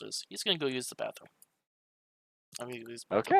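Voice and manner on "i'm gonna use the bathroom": higher, louder character voice; in-character announcement. Acted. Player voicing Mumbles leaving for bathroom, raised announcing voice. Same line restated as the character.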